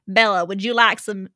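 attempted heavy Chicago accent. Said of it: "talking in a heavy Chicago accent".

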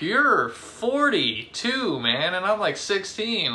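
pitched high in disbelief; incredulous retort. Retold or imitated. Retorting to the yelling boss.

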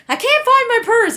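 put-on high, loud, dramatic rich-girl whine; bougie girl voice. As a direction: play the stuck-up girl in a panic. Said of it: "That's the only bougie girl voice I can do".

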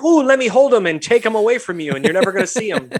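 high-pitched, hammed-up cooing; mock baby gushing. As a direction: gush like someone grabbing a baby. Mock baby-crazy person gushing.

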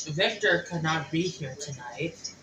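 slow, sultry drag queen hostess; campy drag queen. Acted. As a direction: purr it like a drag diva. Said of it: "I am Victoria Matrix".

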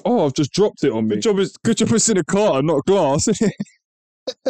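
surprised. Real, not acted. Drops drink on himself.

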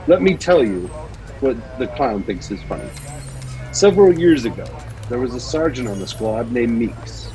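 dramatic story reading; story narration. Acted. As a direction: read it like an audio drama narrator. Reads Batman story aloud.

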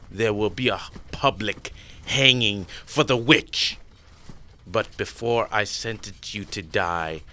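lightly voiced cruel emperor; a hint of a cold tyrant; cold rasping evil emperor. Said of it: "Emperor Zheng is protected by Xena".

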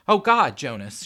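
panicked scream, high and loud; high, loud, tearful alarm; screaming, crying. A narrator's reading. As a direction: cry out in horror for a collapsing husband. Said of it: "she screamed, crying".

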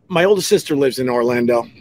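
talking through a burp; words pushed out around a burp. Real, not acted. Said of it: "I'm burping, sorry".

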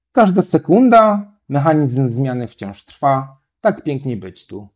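slow, measured poem reading; a poet reading his own haiku from a notebook, slow; reading a haiku aloud. Shown as a demonstration. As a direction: read the haiku slowly, savouring each line. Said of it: "to małym haiku".

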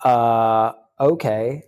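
slow, stunned disbelief. Retold or imitated. Waking from the dream, he mutters in slow shock. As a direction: drag it out in shock. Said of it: "I'm like".

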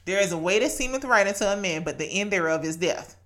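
put-on "There is a way" rattled off fast, like a verse drilled in since childhood. Shown as a demonstration. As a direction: reel it off quickly from memory. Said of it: "I know why I spit it like that".

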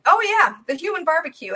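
lightly mocking, lifted pitch; making light of it. Satanist brushes off a warning about hell, making light of it. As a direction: toss it off as a joke. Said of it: "he was making light of it".

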